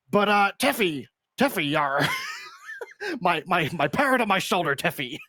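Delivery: hammed-up pirate talking to a parrot; jokey pirate, breaking into laughter; silly pirate voice. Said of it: "put on our silly voices".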